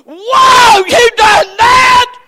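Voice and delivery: high, slow astonished cry; amazed shout. Pretend. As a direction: act out mock awe. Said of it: "God's not gonna stop and say".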